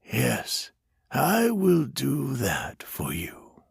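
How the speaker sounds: slow, soft whispered promise. A narrator's reading. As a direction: whisper it tenderly. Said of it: "the stranger said softly".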